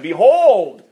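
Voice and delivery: loud, ringing "Behold"; proclaiming scripture. Acted. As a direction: announce it like a preacher.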